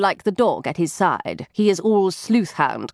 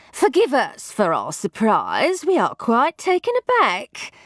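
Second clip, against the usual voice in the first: flustered housekeeper; 5 semitones higher than usual. A narrator's reading. Housekeeper voiced in story.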